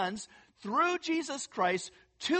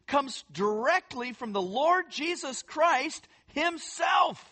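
emphatic preaching; 4 semitones higher than usual. Real, not acted. Preacher builds to a climax.

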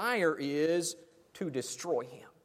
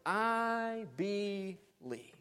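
emotional exclamation; 4 semitones higher, much slower than usual. Shown as a demonstration. Preacher voicing the heartbroken father, slow and exclaiming. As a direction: cry it out with a full heart, stretching it. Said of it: "an emotional exclamation of faith".

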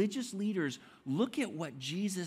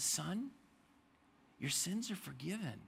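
soft and gentle, trailing quieter; tender, gentle Jesus voice; 5 dB quieter than usual. Retold or imitated. Jesus gently forgiving the paralyzed man, tender and soft. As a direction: speak it like a kind father to a son.

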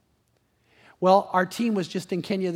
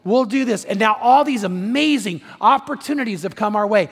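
raised, driving pulpit voice; impassioned preaching; 4 semitones higher, 6 dB louder than usual. Acted. Pastor telling the church of amazing opportunities, impassioned. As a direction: preach it with rising excitement.

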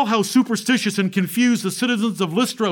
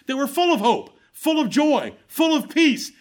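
rising preaching fervor; 5 semitones higher than usual. Acted. Preacher lifting the congregation toward joy, rising fervor. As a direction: build the list to a joyful peak.

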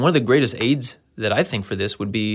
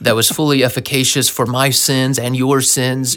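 mock-earnest sermon voice, louder on the big words; preachy Christianese testimony; 5 dB louder than usual. Christian sharing testimony with outsiders, mock preachy. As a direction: ham up the churchy jargon. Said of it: "they'll be talking about".

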